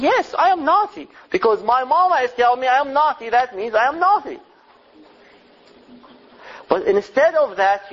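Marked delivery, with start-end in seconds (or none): 0.0-4.4 put-on high, quick child voice; a child talking himself into it, high and fast; child's inner voice. Child repeating what his mama says, high and quick. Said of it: "he thinks".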